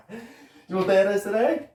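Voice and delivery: fast, high excited question; bursting to tell him. Acted. Prisoner asks cellmate Johnny, fast and high with excitement.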